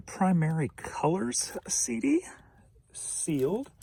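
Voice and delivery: unvoiced whispered announcement. Real, not acted. Whispering the item to viewers. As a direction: hush it out as you read the item.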